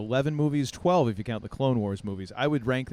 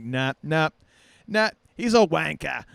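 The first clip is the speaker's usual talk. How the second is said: hammed-up, louder mock Brit; jeering in a badly faked British accent; poor British accent; 5 semitones higher, 7 dB louder than usual. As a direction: put on a bad British accent. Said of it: "my really poor Brit accent".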